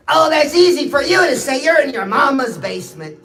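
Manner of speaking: mock heckler. Imagined viewer heckling the speaker.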